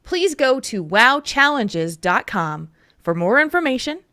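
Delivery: measured, announcer-style charity plug; sponsor read. Acted. Host telling listeners about a charity stream, sponsor read.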